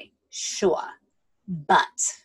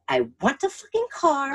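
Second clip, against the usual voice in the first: retold tirade; 8 semitones higher than usual. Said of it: "at the end of his tirade, he says".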